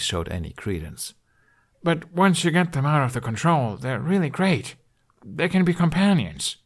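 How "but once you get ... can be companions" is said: earnest pleading. A narrator's reading. Pleading for dragons to captors.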